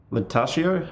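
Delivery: questioning Italian-accented name. Shown as a demonstration. Streamer sounding out a Latin word, Italian accent. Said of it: "saying it in an Italian accent".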